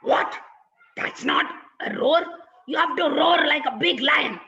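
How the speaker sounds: loud annoyed king father; angry lion papa scolding his son. Acted. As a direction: tell the cub off sternly.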